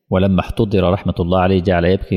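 normal talking voice

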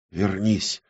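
soft, feverish plea; feverish whisper. Acted. Оксана calls the lost world back, whispering feverishly. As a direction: murmur it urgently under the breath. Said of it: "лихорадочно шептала Оксана".

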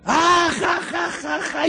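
carcajada exagerada muy aguda; imitando risas. Retold or imitated. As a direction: imita la risa burlona de la congregación. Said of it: "se empezaron a reír". (remedo de carcajadas en alto)

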